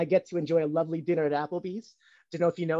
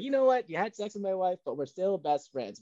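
forgiving husband quote; 3 semitones higher than usual. Retold or imitated. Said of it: "He's like".

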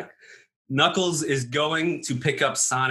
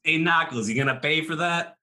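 lightly put-on Chicago bartender voice, a bit higher; a touch of Chicago accent; 4 semitones higher than usual. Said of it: "He lost his Chicago accent".

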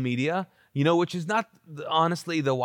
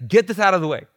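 louder, pushing it aside; Jesus ordering the stone moved, louder; forceful; 6 dB louder, faster than usual. Retold or imitated. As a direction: clear everything out of the way. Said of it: "It's like".

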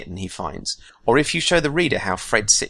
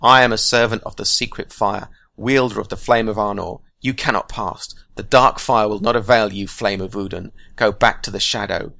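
louder, solemn wizard's challenge; defiant Gandalf; 5 dB louder than usual. Acted. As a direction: proclaim it against the dark. Gandalf defies the Balrog.

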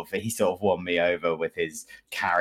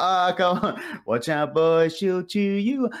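mock taunt; 10 semitones higher than usual. Mock taunt during firefight.

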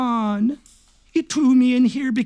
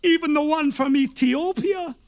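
comic wail; 4 semitones higher than usual. Acted. Gossiping prisoner, comic outburst.

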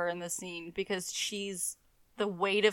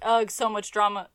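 whiny mock Caroline; 2 semitones higher, 7 dB louder than usual. Quoting Caroline's whiny line.

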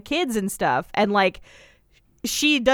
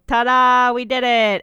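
mock ta-da; 2 semitones higher, 4 dB louder than usual. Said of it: "she's like".

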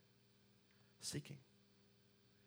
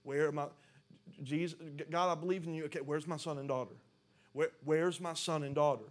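loud, insistent, raised voice; urgent searching; 3 semitones higher, 6 dB louder than usual. Acted. The Father searches for son and daughter, loudly urgent. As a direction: cut across the talk, demanding to find them.

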